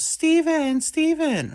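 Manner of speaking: put-on high-pitched girl calling a name; imitated calling out. Girl runs up calling his name.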